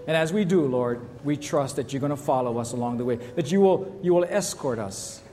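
a lightly lifted prayer voice. Acted. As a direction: pray over the church, earnest and steady. Pastor leads closing prayer.

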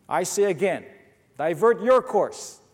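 a proud captain hammering the order; insistent, commanding repeat; upset captain. Acted. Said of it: "got a little upset at this".

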